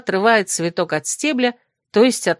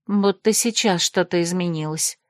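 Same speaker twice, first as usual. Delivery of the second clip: grumble. Acted. Krasimirka sulks at Desmond, a mild grumble. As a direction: grumble it under your breath. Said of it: "буркнула девушка".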